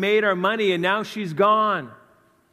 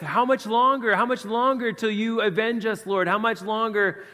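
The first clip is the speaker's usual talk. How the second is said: pleading martyrs; 5 semitones higher than usual. Retold or imitated. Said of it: "were crying like".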